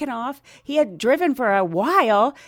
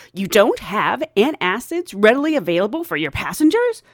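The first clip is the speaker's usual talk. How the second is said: louder, emphatic passenger disbelief; indignant, punched-up retold question; retold incredulous demand; 2 semitones higher, 5 dB louder than usual. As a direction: question it as an affronted customer.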